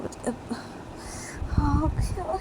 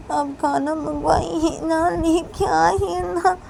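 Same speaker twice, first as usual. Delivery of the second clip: put-on sobbing child. Child sobs, refuses father's food.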